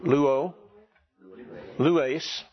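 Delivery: Luo and lues stressed on LU; stress on first syllable. Shown as a demonstration. Teacher leading class in pronouncing verbs, first-syllable stress on Luo, lues. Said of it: "all right, let's pronounce these".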